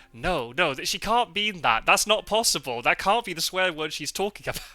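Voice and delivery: imagined disbelief. Retold or imitated. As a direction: protest that it can't possibly be true. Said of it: "I see them going".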